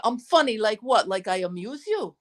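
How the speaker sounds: a lightly done, bad Goodfellas tough-guy accent; half-hearted stab at a Goodfellas gangster accent; mock Goodfellas accent, barely there. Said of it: "I do a really bad accent".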